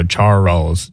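"Charles" said with the chin dropping twice, char-les; two-syllable demo. Shown as a demonstration. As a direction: show "Charles" as two beats for the chin test. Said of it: "put your hand under your chin and go".

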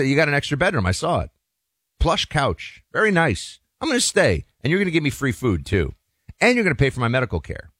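lightly voiced freeloader making demands; demanding guest. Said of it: "I said".

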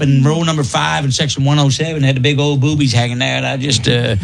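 mock NASCAR driver accent. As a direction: drop into a good-ol'-boy NASCAR driver telling his race. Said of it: "That's how he interviewed the drivers".

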